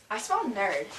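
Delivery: put-on low, sneering mean-girl line. Mean girl sneering at the nerd in the skit. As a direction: look down your nose and sneer it.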